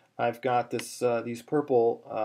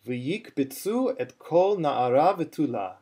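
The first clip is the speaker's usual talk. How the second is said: spoken reading, "V'yikbitzu" lifted at the end; careful teacher's reading with marked stresses on "kol"; phrase with its accents; 2 semitones higher than usual. Shown as a demonstration. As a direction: model the phrase without singing, falling on "v'tula". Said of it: "good one to do step two on".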